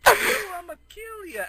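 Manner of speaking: high, loud, slow cartoon threat; mock killer threat. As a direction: screech it like a crazed cartoon rescuer. Character arrives with a threat.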